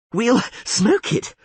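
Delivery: slow, breathless from hauling; panting. A narrator's reading. Dandelion out of breath after hauling the line, panting. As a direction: pant the words out between pulls. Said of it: "panted Dandelion".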